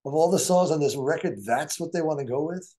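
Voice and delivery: rising high, astonished protest; mock outrage at the label's pick; aghast disbelief. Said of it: "We just went".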